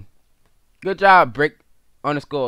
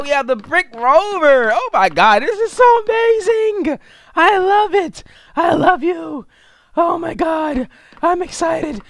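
high, loud, squealing fangirl gush; hammed-up excitement; 10 dB louder than usual. At the car show, squealing hammed-up excitement at each car. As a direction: gush over the cars like a screaming fan. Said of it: "guys, I'm so excited for this".

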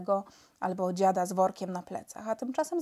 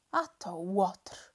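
cry; much slower than usual. A narrator's reading. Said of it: "krzyknął Maciuś".

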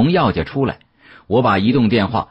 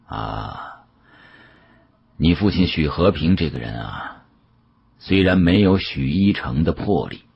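put-on an elderly dealer musing with regret; a hint of a weary old man; old Yao's voice; 3 semitones lower than usual. Old Yao speaking to narrator.

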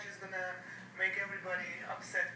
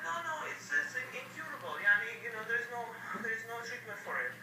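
mocking the doctor; 5 semitones higher than usual. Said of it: "He said".

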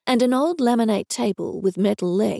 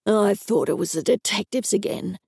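angry. A narrator's reading. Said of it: "he said in an angry voice".

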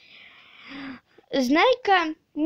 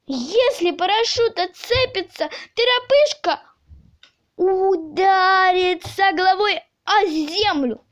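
high, urgent warning cry; alarmed shouting; 5 semitones higher than usual. A narrator's reading. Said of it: "закричал доктор Пилюлькин". (тревожный крик)

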